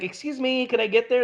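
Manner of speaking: mock polite. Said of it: "So I'm gonna say".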